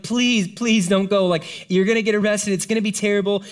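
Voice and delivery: lightly voiced friends pleading with Paul; mock pleading. Friends begging Paul not to go.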